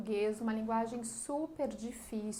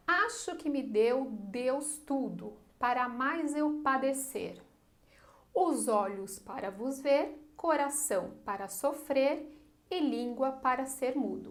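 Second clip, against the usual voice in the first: poem recitation. Shown as a demonstration. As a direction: read each verse out, pausing after it. Reads the poem verse. (leitura pausada de poema)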